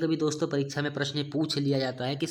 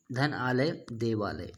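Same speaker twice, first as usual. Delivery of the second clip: slow, deliberate spelling out of धन आलय then देवालय; walk through धन आलय slowly, then join it as देवालय; slow demo; 3 semitones lower, slower than usual. Shown as a demonstration. Teacher writing on the board, slowly showing the join. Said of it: "दो समीपवर्ती वर्णों के मेल से".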